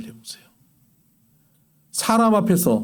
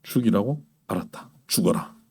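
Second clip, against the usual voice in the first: lower, much quieter curt reply; mock God answering; 10 semitones lower, 6 dB quieter than usual. Preacher imagining God coldly granting the plea, lower and softer. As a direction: drop low and answer coolly, as if God took them at their word. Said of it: "하나님께서 그때".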